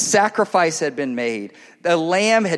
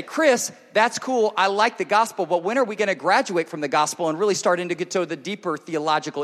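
higher, eager questioning churchgoer; imagined churchgoer; 4 semitones higher than usual. Pretend. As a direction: play the curious listener pushing back. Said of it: "Now, you say".

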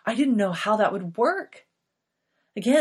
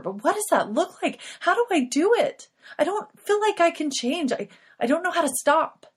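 higher, louder pleading voice of struggling women; struggling women asking how to stop, pleading higher and louder; imitating desperate women; 5 semitones higher, 4 dB louder than usual. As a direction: voice the women's frustrated cry for help, higher and louder. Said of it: "so many women say to me".

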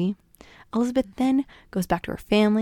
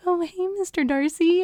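much higher, sing-out hello; mock flustered greeting; 11 semitones higher, 3 dB louder than usual. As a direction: greet him awkwardly in a raised voice. Voicing Elizabeth greeting Darcy.

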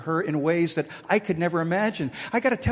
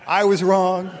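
"I was wrong" said a bit louder, with some feeling; husband grudgingly apologizing with more feeling; a little feeling; 4 dB louder than usual. Retold or imitated. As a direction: make the apology sound meant this time. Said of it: "Could you say it with a little feeling?".

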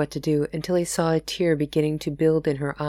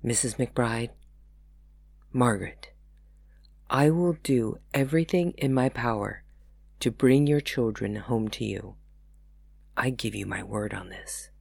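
low, measured, sincere vow; earnest promise; 4 semitones lower than usual. A narrator's reading. Martin reassuring Margaret about her children, earnest. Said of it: "The look of earnestness Margaret saw".

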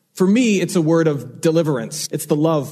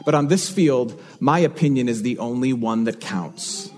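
mild calm, sinking lower to the end; calm umpire's retort; 6 semitones lower than usual. Retold or imitated. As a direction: answer evenly, letting the pitch settle down. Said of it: "very calmly said".

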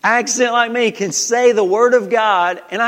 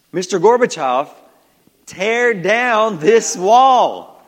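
louder, very slow, commanding quote of Reagan's famous line; 4 dB louder, slower than usual. Retold or imitated. Pastor quoting President Reagan to his congregation, slow and loud. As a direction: deliver it slowly and loudly like a president's demand. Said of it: "President Reagan said these words".

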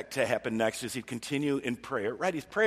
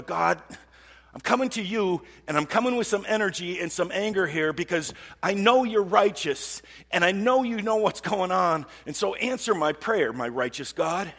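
higher and louder, coming at God with anger; energetic, angry prayer; 4 semitones higher, 4 dB louder than usual. Pretend. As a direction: demand an answer, voice raised. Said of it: "a little bit of a".

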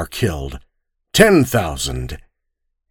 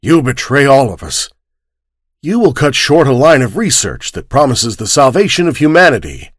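put-on urgent pleading old man, a touch raised; spoke intensely; 3 semitones higher than usual. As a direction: press him hard, words heavy with duty. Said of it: "spoke intensely".

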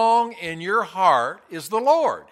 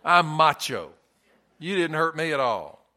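mock macho bravado; 4 dB louder than usual. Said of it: "by his look, he would say".

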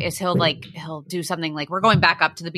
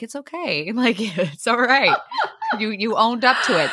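laughing reassurance; 4 semitones higher than usual. Retold or imitated. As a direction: chuckle while telling her it's fine. Reassuring honest daughter, laughing.

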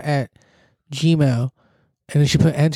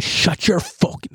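mock whisper; 4 semitones higher, much slower than usual. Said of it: "And you're like".

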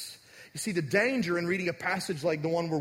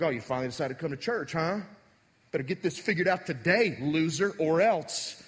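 sarcastic scolding. Retold or imitated. Pastor imitating a mocking Jesus scolding a late churchgoer, sarcastic. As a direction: tease like a smug bully. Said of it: "That's not his heart for you".

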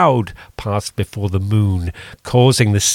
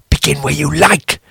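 high, loud outburst; exclamation; 6 semitones higher, 4 dB louder than usual. A narrator's reading. Priest exclaiming at the stalling visitor. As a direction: burst out impatiently. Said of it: "exclaimed the priest".

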